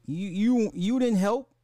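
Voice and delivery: loud, high, hurt accusing voice; indignant accusation. Retold or imitated. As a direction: throw it at her like a betrayal. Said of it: "I'm like".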